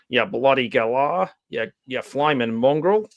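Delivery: lightly hammed-up Australian; Aussie accent. Shown as a demonstration. Showing friends an Aussie accent, mock Australian. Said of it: "I can do an Aussie accent".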